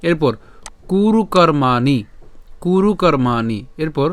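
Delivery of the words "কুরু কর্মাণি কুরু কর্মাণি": "কুরু কর্মাণি" measured, with long drawn "মা"; careful pronunciation. Shown as a demonstration. Teacher models the next words for class, careful "কুরু কর্মাণি". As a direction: say "কুরু কর্মাণি" slowly and distinctly. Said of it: "তাই উচ্চারণ কেমন?".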